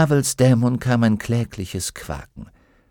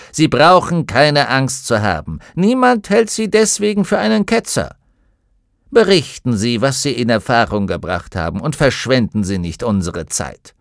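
brusque; 4 semitones higher, 4 dB louder than usual. Acted. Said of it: "unterbrach der Vorsitzende ihn barsch".

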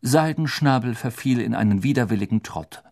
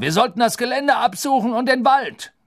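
higher, louder grumbling; gruff snarl; 14 semitones higher, 6 dB louder than usual. Acted. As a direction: growl it out, annoyed. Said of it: "raunzte der Henker".

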